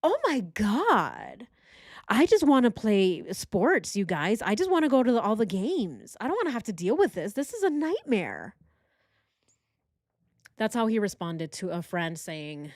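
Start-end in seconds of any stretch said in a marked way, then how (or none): 0.0-8.6 mocking whiny impression. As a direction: sneer it out like a spoiled man who only cares about himself. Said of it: "No, he's like".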